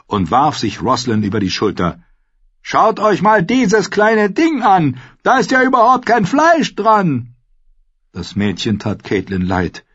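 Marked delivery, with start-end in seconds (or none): 2.6-7.3 booming roar. A narrator's reading. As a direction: bellow it like a brawny giant. The giant carries off the bride.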